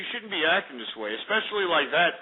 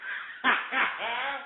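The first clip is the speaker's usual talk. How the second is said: real laugh; 7 semitones higher, 6 dB quieter than usual. Real, not acted. Laughing at own mockery.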